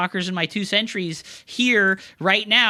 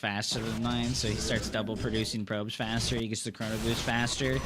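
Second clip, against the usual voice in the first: low, quiet, defeated muttering; a beaten player grumbling quietly; deflated and defeated; 8 semitones lower, 9 dB quieter than usual. Real, not acted. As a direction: mutter it like all hope is gone. Deflated complaint after loss.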